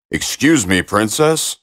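frog voice. Acted. Frog speaks to princess.

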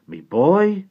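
high, loud voiced coachbuilder; hearty old workman voice. A narrator's reading. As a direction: greet the boy like an old tradesman. Mister Cobb speaks.

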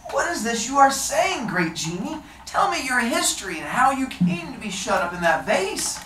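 high, eager fisherman. Acted. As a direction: lift the voice up high. Fisherman questions the genie.

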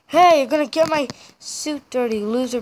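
a mean boss brushing off the worker; rude boss. Pretend. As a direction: sneer down at the new worker.

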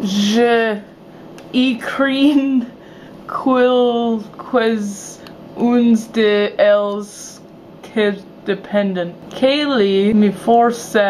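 slow, broken beginner's French; halting French. Pretend. Vlogger forced to speak French, slow halting French accent. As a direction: labour through French word by word.

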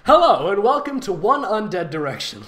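loud announcer welcome; fun house host. Pretend. Mock host welcoming readers to the fanfic, lightly announcer-voiced. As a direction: bark it like a carnival barker. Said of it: "Like it's a fun house".

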